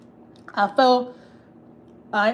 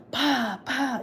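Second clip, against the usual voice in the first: higher, softer mock cries of pain; imitating a child's cries; 6 semitones higher, 3 dB quieter than usual. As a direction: mimic the little boy yelping under the belt. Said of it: "could hear his little brother screaming".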